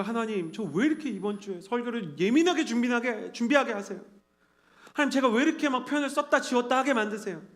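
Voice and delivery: high-pitched, exasperated plea; mock-aggrieved prayer, rising in pitch; retold complaint to God. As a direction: whine upward to God about the workload. Complains to God over sermon writing.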